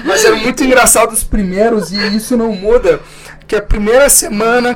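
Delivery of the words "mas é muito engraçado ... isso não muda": laughing. Real, not acted. Laughing about Big Brother.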